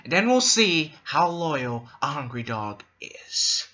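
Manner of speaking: imitating the Joker threatening the mob; Joker impression. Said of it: "The way he just delivered that line".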